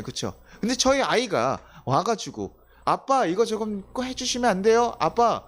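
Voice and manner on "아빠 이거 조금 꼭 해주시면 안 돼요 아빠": put-on higher-pitched pleading little kid; imitated childish pleading; coaxing child. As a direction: wheedle Dad like a child being cute. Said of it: "저희 조이가 막 애교를 부리면서".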